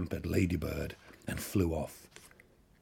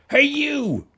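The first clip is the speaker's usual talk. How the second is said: challenging shout; 10 dB louder than usual. A narrator's reading. Ladybird picks a fight.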